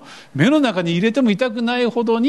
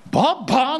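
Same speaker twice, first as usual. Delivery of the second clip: put-on toddler calling; 6 semitones higher than usual. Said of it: "の一言で".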